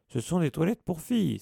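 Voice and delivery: loud, high outraged exclamation; shocked prefect calling them out; older brother scolding at the stairs, loud; exclaiming. Acted. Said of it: "s'exclama-t-il".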